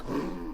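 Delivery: short, soft mock snore; imitated snore. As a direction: imitate a sleeper's snore quietly.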